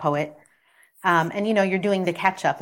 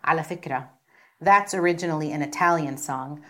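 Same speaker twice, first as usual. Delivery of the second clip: teacher's remark; faster than usual. Retold or imitated. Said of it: "she remarks".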